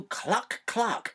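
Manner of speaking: slow, high cluck; clucking read. Retold or imitated. Dad reading the chicken sound to his son, slow. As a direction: cluck it out slowly. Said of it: "chickens go".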